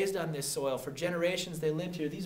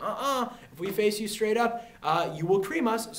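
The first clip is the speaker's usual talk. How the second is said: higher-pitched refusal; mock refusal; 6 semitones higher, 3 dB louder than usual. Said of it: "The Americans like".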